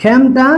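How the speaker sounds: খেমটা with a wide ae in the first syllable; open e sound. Shown as a demonstration. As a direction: model খেমটা as "khaem-ta". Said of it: "এ ধ্বনি বিবৃত হবে".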